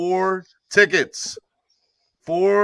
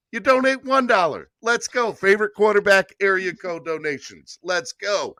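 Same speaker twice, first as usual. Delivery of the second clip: higher excited hype-up; 4 semitones higher than usual. Real, not acted. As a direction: pump up the crowd. Hyping donations.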